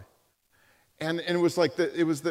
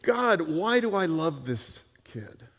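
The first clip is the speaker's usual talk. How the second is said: pleading prayer; 3 semitones lower, 3 dB quieter than usual. Retold or imitated. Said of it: "And she said".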